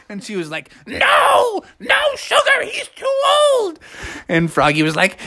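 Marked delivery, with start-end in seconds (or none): 0.9-3.8 high-pitched fussy refusal; high, drawn-out protest; acted scolding. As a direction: object like a fretting Beatrice. Beatrice forbids sugar.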